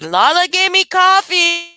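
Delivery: put-on high, slow tattling little boy; snitching child. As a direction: tattle it like a gleeful small kid. Grandson snitching to mom.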